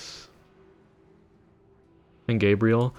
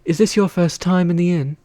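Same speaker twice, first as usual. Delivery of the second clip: put-on higher innkeeper voice, trying a new accent; higher, brighter tavern keeper; retake innkeeper voice; 7 semitones higher than usual. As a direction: redo the greeting as a chirpier barkeep. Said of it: "I keep doing the same accent".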